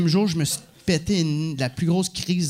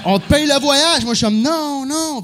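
laughing; 8 semitones higher, 4 dB louder than usual. Retold or imitated. Laughing while retelling trip.

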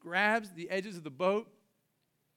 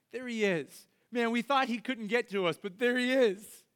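awed disciples; 4 semitones higher than usual. Acted. Disciples in the boat, stunned to see Jesus coming. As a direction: realize it's him with awe.

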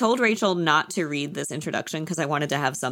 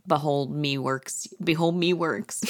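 pirate voice; 3 semitones lower, slower than usual. Retold or imitated. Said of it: "They both sound like a pirate".

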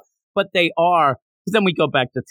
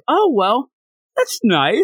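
high, lilting mock approval; pleased onlooker; 7 semitones higher, slower than usual. Viewer sitting there thinking about the dream, pleased high voice.

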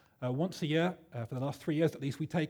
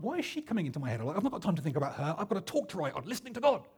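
mock-exasperated, pitch swinging up on the last phrase; flustered complaint to oneself; exasperated inner protest; faster than usual. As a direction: protest to yourself, mildly put out. Flustered by intruding thought before deadline.

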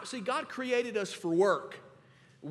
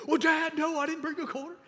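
sheepish little son; 9 semitones higher than usual. Retold or imitated. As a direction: confess like a caught little boy. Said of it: "He said".

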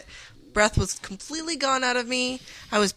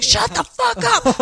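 higher, slowed snap at him; mock snapping; 13 semitones higher than usual. Bride reenacting snapping at her brother, slow angry mock. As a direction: bite it out slowly, pitched up. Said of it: "I'm like".

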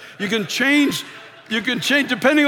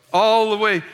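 ordinary talk, nothing marked

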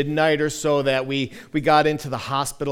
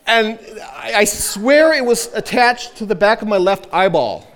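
laughing through the line, higher and louder; recalling the yank, laughing and louder; 6 semitones higher, 5 dB louder than usual. Real, not acted. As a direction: tell it while cracking up. Recalling painful nose-hair pull.

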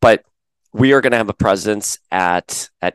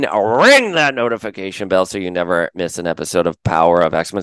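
auctioneer voice. Acted. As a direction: rattle it off like an auctioneer. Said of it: "that was my auctioneer voice".

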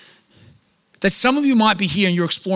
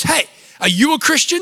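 mock pushy street preacher; 9 semitones higher, 6 dB louder than usual. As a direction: pounce on him like an eager evangelist. Retold fedora man accosting narrator.

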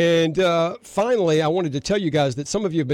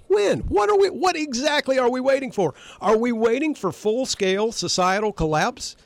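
much higher, insistent questions; fired-up rant; 6 semitones higher than usual. Real, not acted. Radio host to listeners, fired up and demanding. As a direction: demand an answer, worked up. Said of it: "I'm getting a little worked up here".

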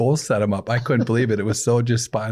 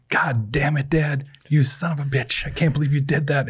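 mock furious outburst; 5 semitones higher than usual. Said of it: "my mom starts going crazy".

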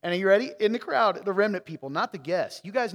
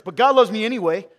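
mock defiant excuse; 2 semitones higher, 10 dB louder than usual. Mocking congregant's excuse, louder.

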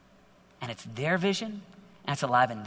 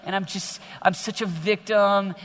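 mock sulky teen; 2 semitones higher than usual. Preacher mocks a bored teen to youth, hammed-up whine. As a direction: ham up a bored teen sprawled on the couch. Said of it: "and you're a slug".

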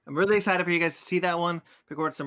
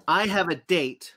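mock prom excitement; 2 semitones higher, 5 dB louder, slower than usual.

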